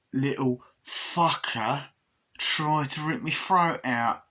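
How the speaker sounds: slow, drawn-out grumble; hammed-up storyteller's complaint; put-on character voice. Attacked man recalling the doll, slow put-on grievance.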